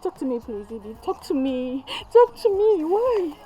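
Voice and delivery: soft, high desperate pleas; desperate pleading. Acted. Mother softly begging her daughter to talk. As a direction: beg quietly, near tears.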